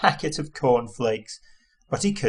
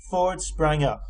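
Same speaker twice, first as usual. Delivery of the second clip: usual speaking voice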